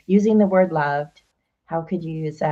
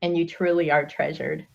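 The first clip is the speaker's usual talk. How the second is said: tearful; 6 dB louder than usual. Real, not acted. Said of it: "I'm gonna get emotional".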